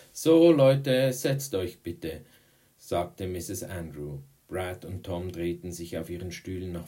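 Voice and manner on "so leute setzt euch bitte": loud, high call, easing off; calling class to order. Acted. Teacher telling pupils to take their seats, calling out loudly. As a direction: round up a noisy class, starting big.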